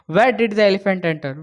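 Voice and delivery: slow, deliberate read; slow question reading. Shown as a demonstration. Teacher reading the question slowly to students. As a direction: lay the question out word by word.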